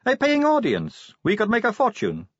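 put-on high, breezy young woman voice; chatty, light-hearted vampire girl. Sally voiced, teasing.

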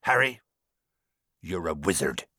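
name called, then low and hushed; gentle revelation. A narrator's reading. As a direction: drop low for the big news. Momentous revelation to the boy.

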